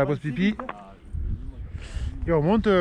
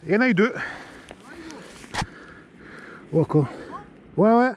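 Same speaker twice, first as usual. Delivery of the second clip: shocked; 9 semitones higher, faster than usual. Real, not acted. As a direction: react in shock after a crash. Crash, shocked reactions. (cris de surprise choqués)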